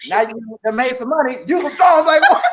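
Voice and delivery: put-on a playful girlfriend talking you up, rising and laughing; cheering a broke friend turned rich, tongue in cheek; sassy hype girl. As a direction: hype her up, sister-to-sister, breaking into a laugh. Acted friend hyping her up.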